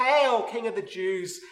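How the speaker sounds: loud, mocking, jeering shout.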